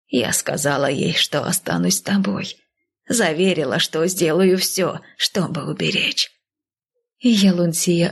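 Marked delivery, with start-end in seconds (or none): 0.1-6.3 put-on gentle, weary elderly voice; lightly voiced old woman; old nanny. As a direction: speak as the worried old nanny.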